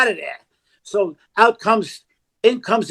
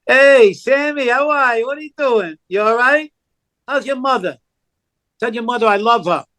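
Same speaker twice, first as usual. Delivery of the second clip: acted audition line; 3 semitones higher than usual. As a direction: play it like greeting an old pal on the corner. His audition reading for the director.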